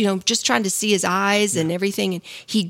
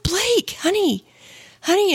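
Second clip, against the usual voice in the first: high, anxious pleading in a retelling; worried calling, retold; 10 semitones higher, slower than usual. Wife retells calling to her fallen husband, worried. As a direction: call out to him high and worried.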